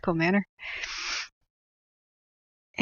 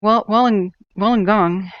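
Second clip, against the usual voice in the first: mock news report. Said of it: "can you imagine me covering Australia fires".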